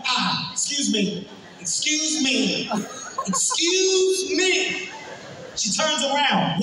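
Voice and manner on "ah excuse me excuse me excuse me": drawn-out faux politeness; exaggerated polite. Comedian calling the woman back, slow faux polite.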